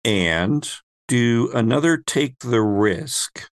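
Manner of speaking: ordinary delivery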